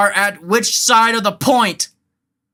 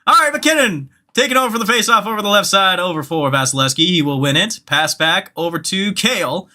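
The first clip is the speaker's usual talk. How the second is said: fast sportscaster call of the action; play-by-play commentary. Acted. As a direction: call the play like a hockey announcer. Mock play-by-play of the game.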